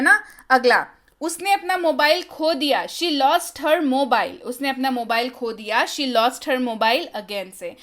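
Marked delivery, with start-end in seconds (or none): 2.9-4.4 slow and clear, word by word; slow model sentence. Shown as a demonstration. Teacher reads the English line slowly for Hindi students. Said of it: "teacher models the English sentence". 5.9-7.1 slow and clear, word by word; slow model sentence. Shown as a demonstration. Teacher reads the English line slowly for Hindi students. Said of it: "teacher repeats the model sentence".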